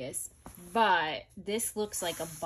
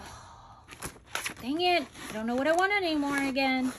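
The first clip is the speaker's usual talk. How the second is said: higher, louder and fast, mock despair; exasperated outburst; 7 semitones higher, 6 dB louder than usual. Real, not acted. Torn between two planners, loud fast exasperated wail. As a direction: throw your hands up, loud and quick. Indecisive about planner choice.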